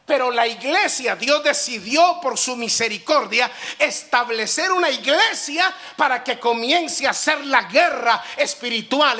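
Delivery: fervent rising preacher voice; loud, driving pulpit declaration; preaching. Acted. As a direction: preach it with fire to the congregation. Preaching spiritual warfare.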